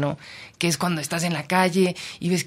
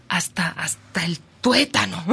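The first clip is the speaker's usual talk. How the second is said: slow whisper; slower than usual. Real, not acted. Reporter stressing how deeply moved she was, slow whisper. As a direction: breathe it out slowly. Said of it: "yo me emocioné".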